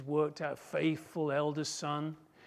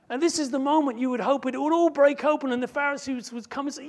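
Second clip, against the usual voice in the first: usual speaking voice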